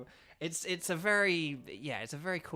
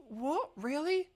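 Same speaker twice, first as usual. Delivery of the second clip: mock surprise; 12 semitones higher, slower than usual. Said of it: "And I'd be like".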